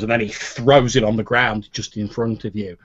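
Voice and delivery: ordinary delivery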